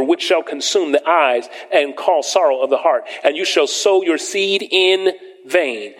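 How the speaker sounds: preacher reading scripture aloud to the church. Acted. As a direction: proclaim the verses from the pulpit. Reads scripture in raised voice.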